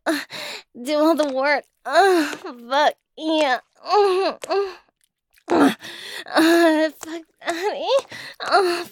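lightly voiced breathy little girl, teasing; a hint of a playful baby girl; coy baby girl voice, barely shifted. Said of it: "my baby girl voice".

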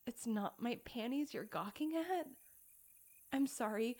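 ordinary talk

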